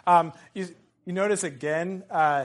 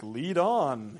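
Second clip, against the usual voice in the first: drawn-out, swooping "lead on"; a sardonic jab under the breath; 3 semitones lower than usual. Acted. Boromir grumbling at Gandalf, sardonic. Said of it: "his sardonic".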